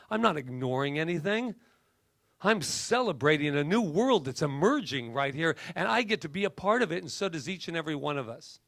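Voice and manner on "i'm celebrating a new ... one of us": celebratory preaching, quickening as it goes; preacher. Real, not acted. Speaker celebrating an emerging new world, fervent preaching. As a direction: proclaim it like a preacher, then hurry on. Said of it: "It's the preacher in me".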